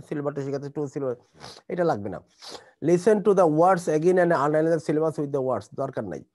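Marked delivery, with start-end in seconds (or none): 2.9-5.7 loud slow read-aloud; reading instruction. Shown as a demonstration. Teacher reading task instruction to class, loud and slow. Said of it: "reading instructions aloud".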